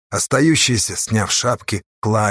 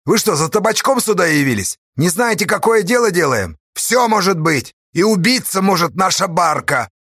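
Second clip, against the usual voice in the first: higher, loud scolding harangue; scolding the crew; 8 semitones higher, 4 dB louder than usual. A narrator's reading. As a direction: berate the scared haulers. Astash scolds frightened haulers. (гневная отповедь бурлакам)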